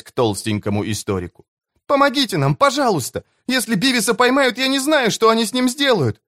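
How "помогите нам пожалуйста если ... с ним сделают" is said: high, frightened begging; desperate pleading. Acted. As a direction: plead for help in terror. (отчаянная мольба о помощи)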